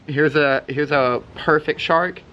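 slow drawn-out showing off; slow, savor the word shark; posing slowly. Shown as a demonstration. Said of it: "Guys, ready? Look".

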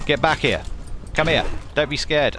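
loud chasing call. Real, not acted. Player chasing a fleeing animal, calling out loudly. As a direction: shout after it as it runs.

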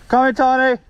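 high, loud call to a dog. Real, not acted. Calls a dog from afar.

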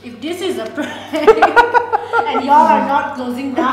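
laughing while talking; words broken by laughter. Real, not acted.

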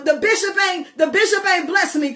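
hesitant, stuttering mock Elijah; stammering excuses. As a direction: hem and haw through excuses. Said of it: "But here's Elijah".

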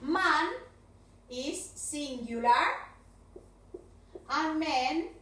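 "Man" and "men" said slowly, vowels kept apart; man versus men. Shown as a demonstration. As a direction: model "Man" then "men" for the class. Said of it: "con man y men".

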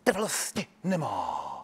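"Trvalosti nemá" slow and evenly dotted out; imitated coach dotting "Trvalosti nemá"; dotted, staccato delivery. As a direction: place each syllable of "Trvalosti nemá" separately, without emotion. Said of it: "úplně čistě tečkovaně".

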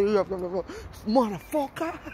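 drawn-out mimicked boast; slow, put-on swagger; mock bragging. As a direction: stretch it out slowly like a braggart. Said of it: "you don't need to be bragging and say".

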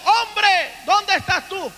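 imitated calling out. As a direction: call out as God searching for the man, not full volume. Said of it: "Dios empezó a gritar". (grito imitado y contenido, llamando)

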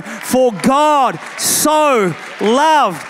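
drawn out, building to the world; slow climactic. Shown as a demonstration. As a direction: let it swell to the end. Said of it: "No, no, no".

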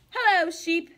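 cheerful duck greeting. Acted. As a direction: wave hello as a happy duck.

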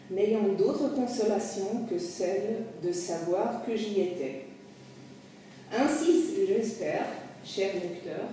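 measured French memoir narration, phrase by phrase; literary reading aloud. Acted. Memoirist addressing his dear reader, measured literary reading. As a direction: read it as a confession addressed to the reader.

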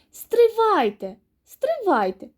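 high, drawn-out "wait"; insistent, stretched-out call; calling a halt. A narrator's reading. Rooster halts the hungry mice.

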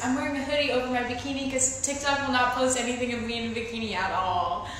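quiet vlog talk; hushed voice. Real, not acted.

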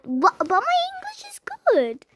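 mocking commenter. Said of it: "Though your English is bad".

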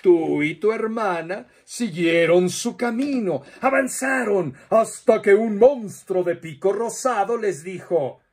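put-on lively storyteller voice for children, with playful questions; reading to children. Storyteller telling children a monster tale, lively and playful. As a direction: tell it like a children's storyteller, drawing kids in.

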